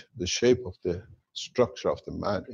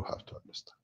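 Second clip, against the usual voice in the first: whispering; 19 dB quieter, faster than usual. Real, not acted. Speaker drops to a whisper.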